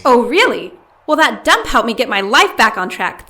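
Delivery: loud, offended comeback; bristling at the insult to her diner; indignant outburst. Acted. To her sister, loudly offended.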